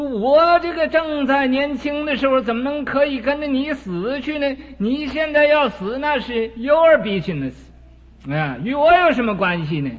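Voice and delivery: a lightly voiced dismissive son; scornful young son. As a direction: toss it off like a selfish youth. Son refuses dying father scornfully.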